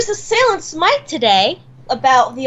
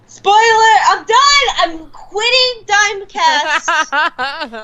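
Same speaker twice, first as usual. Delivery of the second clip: mock outrage; 8 semitones higher, much slower than usual. Co-host pretends to quit over a game spoiler, high mock outrage.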